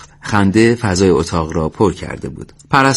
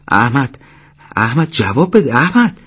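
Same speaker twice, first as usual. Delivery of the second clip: alarmed calling; 4 semitones higher than usual. Acted. صدا زدن دوست افتاده و بیهوش.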